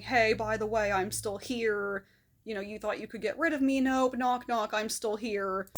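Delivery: sing-song gloating, drawn out on here; taunting intruder voice. Retold or imitated. Voicing thoughts busting through door.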